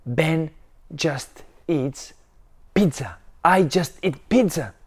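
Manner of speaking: loud, high stubborn shouting; angry yell. Acted. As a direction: refuse it at the top of your voice. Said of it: "And Ben yelled".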